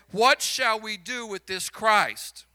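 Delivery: preaching voice. Retold or imitated. Preacher quoting Moody's question.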